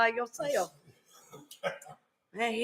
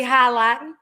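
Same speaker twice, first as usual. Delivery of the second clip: mama's Southern accent; 5 dB louder than usual. Real, not acted. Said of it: "I hear my mama's accent come out".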